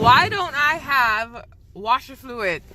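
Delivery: drawn-out, deadpan punchline question; slow joke setup. Real, not acted. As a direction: let it land slowly like a joke. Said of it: "you wanna hear a joke?".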